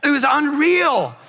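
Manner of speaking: preaching at full force. Acted. Pastor to congregation, rousing vacation freedom preaching. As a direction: preach it like a revival crescendo. Sermon, building vacation joy.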